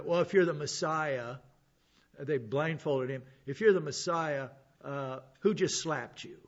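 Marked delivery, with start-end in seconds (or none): 0.0-1.4 mildly taunting quote, a bit louder; mocking challenge. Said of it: "and mocked him". 3.5-6.4 mildly taunting, slowing into the question; mocking challenge. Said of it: "and mocked him".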